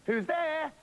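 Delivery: put-on high kid voice. Goat kid at door.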